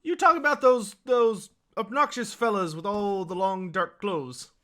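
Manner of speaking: innkeeper scoffing. Acted. Innkeeper scornfully asking about the dark-clad zealots. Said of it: "he goes".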